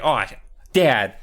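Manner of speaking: loud, high-pitched mock pleading; desperate kid. Joe blaming gnomes to Dad, hammed-up frantic shouting. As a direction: cry out, desperate to be believed.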